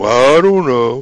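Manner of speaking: vacant, really dumb, dopey delivery. Telling Ruth how people really answer, the speaker says it really dumb. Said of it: "you gotta say it really, you know, really dumb".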